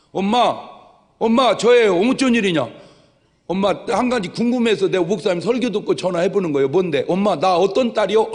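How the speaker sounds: a daughter calling mom with a question. Retold or imitated. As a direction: call your mother eagerly. Child phoning mother.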